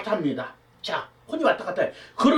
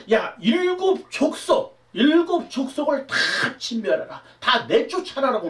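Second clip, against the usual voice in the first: God's command; 3 semitones higher than usual. Acted. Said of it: "하나님께서 뭐라고 말하냐면요".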